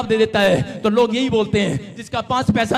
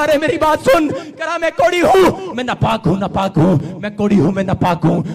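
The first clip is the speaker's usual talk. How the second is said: shouting louder. Acted. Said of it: "और जोर जोर से चिल्लाना".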